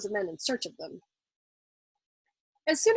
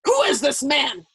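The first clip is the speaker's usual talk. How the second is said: furious shout; 4 semitones higher, 8 dB louder, slower than usual. A narrator's reading. General enraged at officer.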